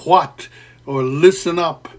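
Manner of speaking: what and listen up called out loud; calling out. Shown as a demonstration. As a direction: call the hall to attention. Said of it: "calling out to a crowd".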